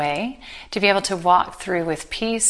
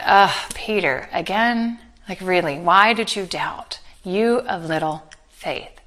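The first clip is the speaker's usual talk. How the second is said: mock disappointed Jesus. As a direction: play a let-down teacher, lightly. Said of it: "as just another point of disappointment".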